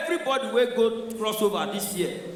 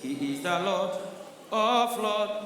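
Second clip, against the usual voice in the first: slow, solemn and softer; reverent introduction; 4 dB quieter, slower than usual. Retold or imitated. Oyibo pastor introducing God reverently, slow and soft. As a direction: present the Lord with quiet reverence. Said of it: "hear the way they introduce".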